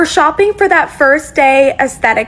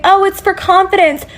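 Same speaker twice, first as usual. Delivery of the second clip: light sing-song of a trendy mom, higher pitch; mocking mom quote; 5 semitones higher than usual. Creator mocks moms, mild put-on voice. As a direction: mimic a mom justifying a haul, lightly voiced. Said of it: "I see a lot of moms saying".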